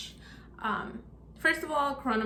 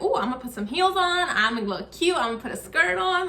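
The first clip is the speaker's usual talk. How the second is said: excited; 5 semitones higher than usual. Retold or imitated. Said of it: "Like, I was so excited".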